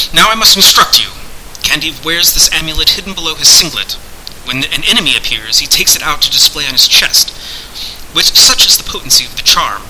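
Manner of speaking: lightly declaimed voice of a hidden master; instructing sorcerer. Acted. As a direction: instruct him with formal gravity.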